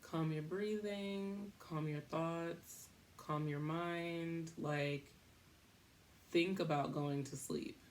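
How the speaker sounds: slow, soft soothing self-talk; calm self-talk. Retold or imitated. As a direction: talk yourself down slowly and gently. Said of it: "thinking in my head".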